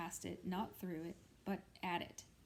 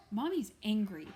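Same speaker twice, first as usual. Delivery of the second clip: blurted; 2 semitones higher, 9 dB louder than usual. A narrator's reading. Child Natalie blurts to father.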